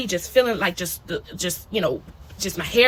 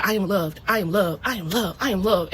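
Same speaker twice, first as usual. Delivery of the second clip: repeated mantra; 2 semitones lower, 4 dB quieter than usual. Retold or imitated. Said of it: "I kept saying".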